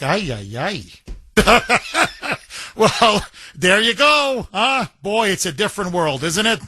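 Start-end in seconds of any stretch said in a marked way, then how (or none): 0.0-2.4 mock dismay. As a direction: groan ay ay ay in mock disbelief. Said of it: "I'm like".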